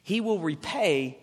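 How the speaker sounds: "repay" drawn out slowly and firmly; stress on repay. Real, not acted. Preacher underlining "repay" for the congregation, emphatic. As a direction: underline "repay" with a slow, weighty push. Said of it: "underline the word repay".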